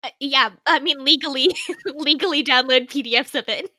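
loud laughing correction. Real, not acted. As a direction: correct herself through a laugh.

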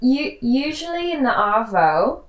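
attempted Aussie accent, slow; slow careful try at Australian. Shown as a demonstration. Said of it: "the Australian accent challenge".

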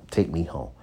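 cool and done with the date; curt take me home. Retold or imitated. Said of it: "is different than the one".

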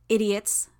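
loud, high, scornful shout. Acted. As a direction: yell it in contempt. Hero shouting from insect cloud.

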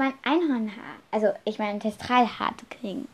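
halting, restarting words, lost for them; a light nervous stutter; stammering. Acted. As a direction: stumble nervously through the idea.

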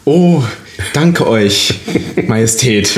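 courtly noble voice; lofty mock courtesy; snooty aristocratic german. Courtly role play reply.

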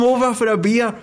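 high, pleading mock beg; hammed-up high pleading for a beer; mocking a friend begging a neighbour over for a beer. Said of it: "it was in the tone of your voice".

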